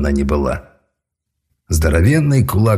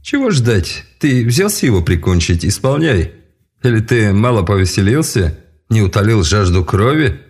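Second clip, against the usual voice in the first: higher, shrill impatient mage; angry mage; 4 semitones higher than usual. Acted. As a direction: demand it impatiently. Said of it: "закричал Эльрах".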